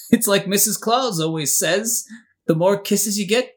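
lightly voiced Christmas elf; a hint of a cheery elf. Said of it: "like your elf voice there".

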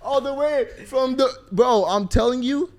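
big up the guest at full volume; hyped-up introduction. Real, not acted. Host bragging on the rare Atletico fan, loud hype.

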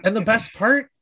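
deliberate, measured menace with heavy pauses; calm threat. Retold or imitated. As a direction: act out a threat without yelling. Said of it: "a hundred percent calmly".

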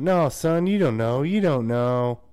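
lecturing parent. Retold or imitated. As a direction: talk down to your son. Family lecturing the son.

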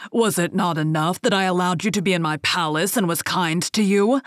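loud, furious beast roaring at the thief; a monster scolding in a terrible voice. Acted. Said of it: "said in a terrible voice".

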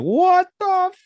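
very high, drawn-out disbelieving cry; hammed-up astonishment. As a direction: exaggerate amazement, stretching it out high and loud. Acting out own amazed reaction.

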